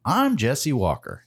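slow, drawn-out radio sign-off, lightly imitated; Jesse Walker impression. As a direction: play a local radio newsman signing off, slowly. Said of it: "exactly how he says it every time".

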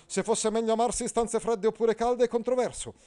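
high, loud pompous knight; Agilulfo pompous. Acted. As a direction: declaim like a stiff courtly knight. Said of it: "disse Agilulfo". (Agilulfo, cavaliere pomposo, acuto e forte)

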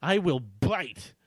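very slow, deadpan echo of the threat; mocking repeat. Shown as a demonstration. Reader repeats the silly threat, slow amused echo. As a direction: savour each word, amused. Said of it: "laughs after reading it".

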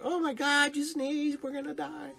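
high, loud mock panic. To the sneezing cashier, joking in a high, loud mock panic. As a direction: shriek it like the sky is falling. Repeating the joke at the store.

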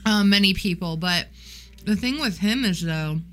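talking around ice in mouth. Real, not acted. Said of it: "I have ice in my mouth".

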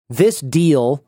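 This deal said with sarcastic air quotes; scoffing at This deal as a so-called deal. Real, not acted. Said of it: "I put that in air quotes".

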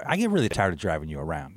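low, quiet, weary grumble; weary parent. Retold or imitated. Dad retelling his complaint to his daughter, low and weary. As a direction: tell it low and quickly. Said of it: "I just looked at her and I go".

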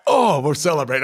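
imitating himself celebrating with buddies; young player hearing he was drafted, excitedly. Retelling joy at being drafted.

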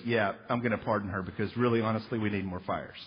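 mock President. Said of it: "the President ... says".

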